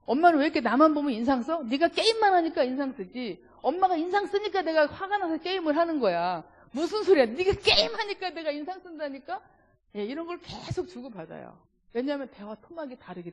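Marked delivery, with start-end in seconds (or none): 0.1-9.4 put-on heated mother-child bickering.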